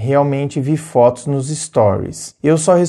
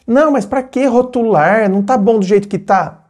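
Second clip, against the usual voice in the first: put-on dismissive boyfriend; 6 semitones higher than usual. Boyfriend avoiding labels.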